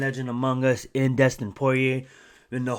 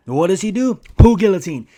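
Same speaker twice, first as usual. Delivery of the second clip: exasperated outburst; 4 semitones higher, 11 dB louder than usual. Real, not acted. Exasperated rant about repeated guillotines.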